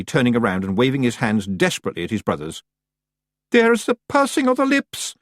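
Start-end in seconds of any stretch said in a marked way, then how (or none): 3.5-5.1 high, loud Scottish pixie cry; terrified Feagle shouting high; panicked shout. Acted. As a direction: shout the alarm in dread. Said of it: "a Feagle shouted".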